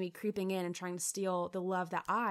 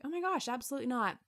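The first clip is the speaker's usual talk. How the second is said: surprised denial; 5 semitones higher, faster than usual. Retold or imitated. Husband's imagined reply.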